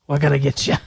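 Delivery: lightly put-on Irish accent; mock stage-Irish threat; mock Irish God. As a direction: improvise as a halting Irish God. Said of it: "can't think of an Irish slang word".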